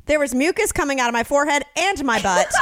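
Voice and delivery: lightly voiced old man; a hint of a gruff old man. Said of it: "I hear an old man voice behind me say".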